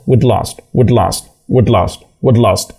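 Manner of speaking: "we'd lost" short and fused, not "we had lost"; "we'd lost" with "had" reduced to a bare d; contracted we'd. Shown as a demonstration. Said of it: "مثلًا ممكن نقول we'd lost".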